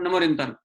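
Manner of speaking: नमोरियंतानु run together with the अ dropped; hurried wrong pronunciation. Shown as a demonstration. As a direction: rattle off नमोरियंतानु like a rushed chant. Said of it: "नमोरियंतानु बोलते हैं". (जल्दी में गलत नमोरियंतानु)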